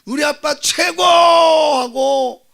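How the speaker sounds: high, shouted cheer; mock childlike jubilant shout; imitated child's adoration. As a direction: cheer for Dad like a thrilled little boy. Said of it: "아빠를 그렇게 막 좋아하는".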